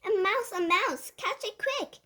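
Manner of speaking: high, urgent alarm cries; shouting. A narrator's reading. Kitchen staff chase the mouse, shouting. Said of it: "they were shouting".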